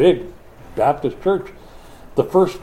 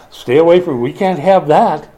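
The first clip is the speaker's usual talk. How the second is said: mock outraged recoil; 4 semitones higher, 5 dB louder than usual.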